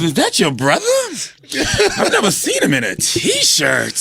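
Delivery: lightly voiced campy admirer; old flamer. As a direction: draw it out like a flamboyant older man. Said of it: "my guy is a old flamer".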